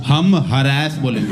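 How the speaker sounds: slow, defiant mock American; stubborn Americans. Americans defying the British, slow and defiant. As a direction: declare it slowly, stubbornly. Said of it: "Americans कहते हैं".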